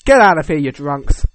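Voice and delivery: loud, hammed-up yell; mock angry shout. The Irish showing up to chase off rivals, mock angry shout.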